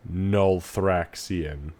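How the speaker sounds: drawn-out, slow creepy word. Acted. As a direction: let the word crawl slowly, deep and creepy. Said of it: "but in the deeper, creepier voice".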